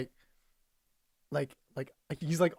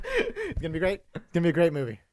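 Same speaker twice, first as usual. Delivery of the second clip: Tom Cruise impression. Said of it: "he kinda has that sound".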